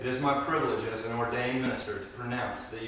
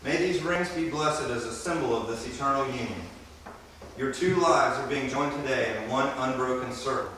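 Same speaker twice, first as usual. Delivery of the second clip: ring blessing. Acted.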